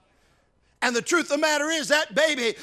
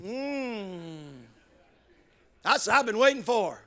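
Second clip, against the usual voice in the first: put-on pleased baby; 3 semitones lower, 3 dB quieter, slower than usual. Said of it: "he goes".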